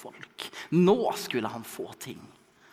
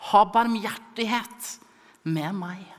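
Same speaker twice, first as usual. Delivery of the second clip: higher, pleading call-out; ropende bønn; 7 semitones higher, 4 dB louder, slower than usual. Acted. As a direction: cry out to Jesus from the crowd. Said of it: "Da ropte han". (ropende, høyt og bønnfallende)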